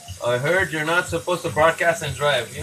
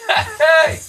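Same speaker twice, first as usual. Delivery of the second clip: loud, high mock hey; mock shout; 14 semitones higher, 7 dB louder than usual. Streamer imitates someone yelling at him, mock loud. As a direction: bark it out like a rude guy.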